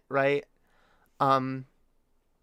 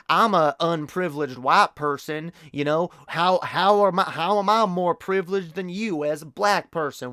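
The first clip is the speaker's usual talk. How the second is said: mock Southern accent; 3 semitones higher than usual. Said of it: "oh, you mean the, the Southern accent?".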